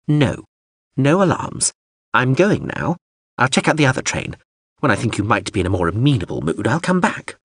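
huffy drone. Acted. Drone departs huffily.

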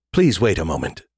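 low, monotone machine voice; flat computer voice. A narrator's reading. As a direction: speak like an emotionless computer. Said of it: "the suit computer's flat, emotionless voice".

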